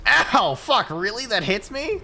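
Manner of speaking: high, loud yelp turning to disbelief; real outraged gamer outburst; indignant yelp. Real, not acted. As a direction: cry out, then protest the hit. Hit unexpectedly in the game.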